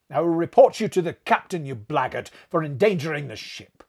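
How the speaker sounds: loud, high angry tirade at the steward; furious scolding. A narrator's reading. Narrator scolds the steward over the open port, loud and furious. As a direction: bawl him out for leaving the port open. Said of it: "I was exceedingly wroth".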